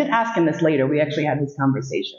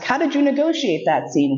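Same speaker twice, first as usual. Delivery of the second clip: imagined listener asking; 8 semitones higher than usual. Retold or imitated. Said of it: "you ask".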